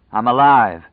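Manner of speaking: loud, breaking with relief; overjoyed relief. A narrator's reading. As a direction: burst out with disbelieving joy. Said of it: "Stu Redmond said to the night".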